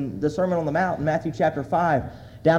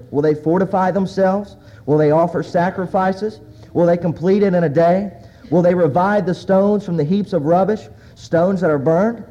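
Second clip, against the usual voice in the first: loud, measured reading, slowing at the ends; scripture reading; 3 dB louder than usual. Acted. Preacher reads Sanballat and Tobiah's taunts aloud, loud reading. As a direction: proclaim the taunts to the congregation.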